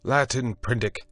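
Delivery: high, loud urgent shout. A narrator's reading. Moreau shouts across the water urging Prendick to understand. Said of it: "then shouted".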